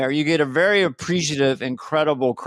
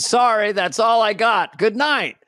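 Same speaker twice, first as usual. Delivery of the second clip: mock sign-off; 5 semitones higher than usual. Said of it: "I hear this very clearly at the end".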